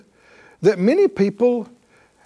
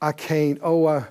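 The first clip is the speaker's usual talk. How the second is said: mock timid believer; 5 semitones lower than usual. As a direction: shrink back in false humility. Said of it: "when people are doing it".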